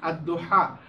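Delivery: দুহা with the h from mid-throat; deep-throat h. Shown as a demonstration. Teacher repeating for students, দুহা with a throaty হা. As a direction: make the হা in দুহা a heavy throat h. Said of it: "গলার মধ্যখান থেকে উচ্চারণ করতে হবে".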